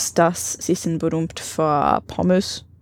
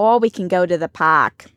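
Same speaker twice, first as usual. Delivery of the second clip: put-on New Jersey accent. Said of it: "that's New Jersey".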